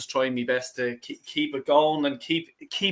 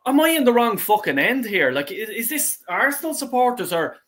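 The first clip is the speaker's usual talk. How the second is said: mildly outraged retelling, pitched up; retold exasperation; 6 semitones higher than usual. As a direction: relive being mad at the crowd, higher-pitched. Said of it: "I was going fucking mad".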